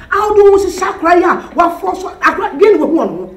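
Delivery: taunting through laughter; quiet, laughing taunt; mocking laugh. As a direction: laugh at him as you mock.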